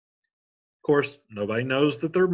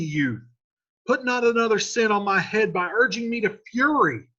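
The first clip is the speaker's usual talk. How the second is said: much higher and louder, pleading; desperate Romeo; 9 semitones higher, 5 dB louder than usual. Acted. Romeo warning Paris off, desperate loud plea. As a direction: beg him to get away. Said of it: "And Romeo says".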